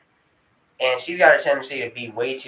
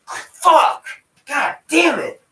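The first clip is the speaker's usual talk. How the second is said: high, loud cry of pain; sudden pained outburst, pitch leaping up; pained shout; 7 dB louder, much slower than usual. Real, not acted. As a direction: yell out as the jaw pops back. Pain as jaw pushed back.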